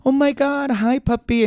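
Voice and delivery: put-on high cooing baby talk to a puppy; cooing friend. Friend greeting the new puppy, high cooing. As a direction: coo at the dog in a high voice. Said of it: "Alice goes".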